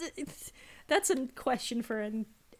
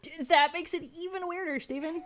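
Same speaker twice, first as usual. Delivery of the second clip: exasperated; 6 semitones higher, 4 dB louder than usual. Real, not acted. Exasperated reply to weird answer.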